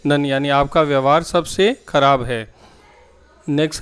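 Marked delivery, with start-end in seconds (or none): 0.1-0.2 very slow and clearly spaced, word by word; slow model sentence. Shown as a demonstration. Teacher to Hindi-speaking students, modelling the English sentence slowly. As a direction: spell the sentence out slowly for learners. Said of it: "तो इसको आप बोलते हैं".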